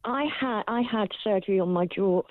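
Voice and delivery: talking through clenched teeth; speaking with a wired jaw; jaw wired shut. Real, not acted. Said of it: "So I'm speaking through my teeth".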